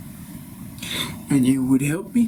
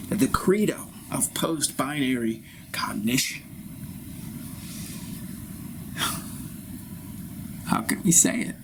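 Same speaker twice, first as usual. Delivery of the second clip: whisper; 5 dB quieter than usual. Acted. Pompous guru confides in whisper.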